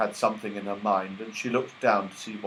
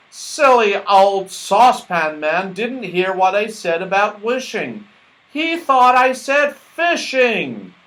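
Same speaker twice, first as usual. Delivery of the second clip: Moonface voice; 8 semitones higher, 6 dB louder, slower than usual. Acted. Moonface complaining about the mistake.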